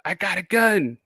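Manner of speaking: high-pitched mock threat; movie doctor threatening. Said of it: "He's like".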